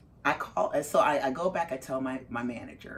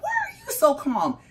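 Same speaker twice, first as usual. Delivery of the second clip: very high, louder mock outburst; exasperated disbelief; 5 dB louder than usual. Mother to her utterly calm son, exasperated. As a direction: squeal the question in comic bafflement. Repeats baffled question, heightened.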